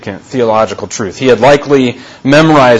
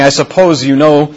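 sarcastic; 3 semitones higher than usual. Retold or imitated.

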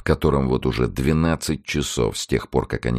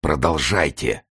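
high impatient urging; 2 semitones higher, slower than usual. A narrator's reading. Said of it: "высоким нетерпеливым голосом".

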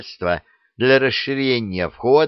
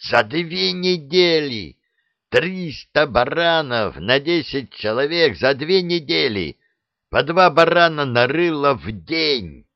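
raised, outraged voice; indignant outburst; 5 semitones higher than usual. Acted. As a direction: count the waste in disbelief. Koschei outraged over expenses. (возмущённо)

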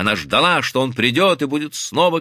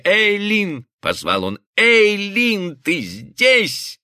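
raised, drawn-out call to someone out of sight; 8 semitones higher, much slower than usual. A narrator's reading. Husband calls to his wife behind a locked door, calling out. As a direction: call her name through the door, pitched high.

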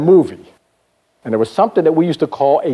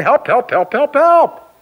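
high, hammed-up cries for help; mock screaming; 11 semitones higher, slower than usual. Man stuck in quicksand calling for help, high mock screams. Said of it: "The guy is screaming".

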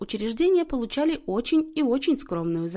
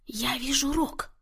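slow, raised pitch, a touch of scoffing; wry snort; 5 semitones higher, 3 dB quieter, slower than usual. A narrator's reading. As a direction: announce it with a mild huff. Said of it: "хмыкнула Марианна".

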